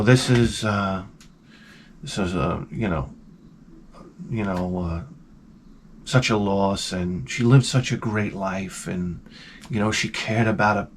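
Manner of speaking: imitating a gentle, hesitant eulogy; soft-spoken pastor. Pastor eulogizing a grandmother, gentle and soft-spoken. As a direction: speak low and softly, feeling for each phrase. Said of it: "he was so soft-spoken".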